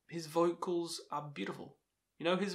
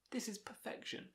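awed whisper; 8 semitones higher, 11 dB quieter than usual. Real, not acted. Album reviewer hushing his praise, whispered. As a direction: drop to a reverent whisper.

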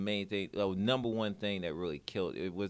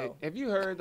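breathy whisper, pitched higher; whispered aside; 10 semitones higher than usual. Real, not acted. Interviewer whispering a quick aside to the guest. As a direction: lean in and whisper a question.

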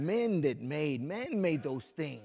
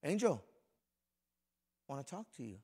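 gentle call; 2 semitones lower than usual. Shown as a demonstration. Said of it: "And he'll say it like that".

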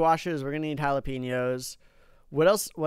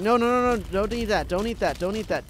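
pleading panic; 4 semitones higher than usual. Real, not acted. Zombie eating plant.

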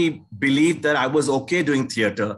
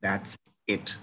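furious insistence; 7 semitones lower, 4 dB quieter, much slower than usual. Retold or imitated. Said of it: "Alec furiously said to everyone".

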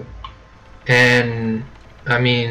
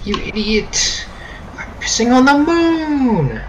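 much higher, slow, cartoonish squeal; meme character voice; 13 semitones higher, slower than usual. Gamer quoting a meme in a squeaky cartoon voice. Making references is all I'm good for.

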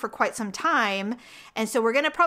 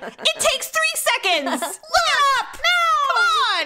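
pleading; 4 dB louder, slower than usual. Retold or imitated. Nagging producer, mock pleading.

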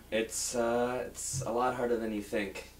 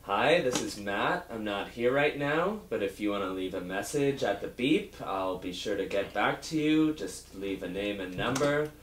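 put-on old man voice; 3 semitones lower than usual. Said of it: "talking like an old man".

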